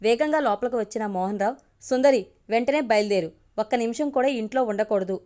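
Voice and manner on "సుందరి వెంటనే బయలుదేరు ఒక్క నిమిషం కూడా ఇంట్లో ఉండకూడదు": a mild mock shout, only slightly raised. Husband calls to his wife to leave, a mild mock shout. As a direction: call out, lightly acted, not a real yell. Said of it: "అరిచాడు".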